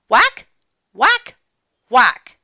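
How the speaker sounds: loud, short bursts, high then dropping; punchy sound effects. Acted. Froggy whacking a coconut tree, punchy effects. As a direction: strike each word like a blow. Blows in ninja fight.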